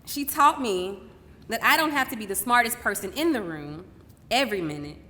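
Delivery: deliberate, poetic stage delivery with long pauses; spoken-word monologue. Acted. Daughter honouring her mother on stage, measured spoken-word delivery. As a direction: let each phrase land before the next.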